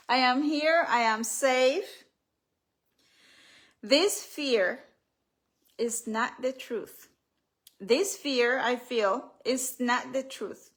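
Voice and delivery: firm, deliberate self-affirmation with pauses; affirmation reading. Acted. Author telling herself fear is not the truth, firm affirmation. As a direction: state each phrase as a steady declaration. Reads affirmation from her book.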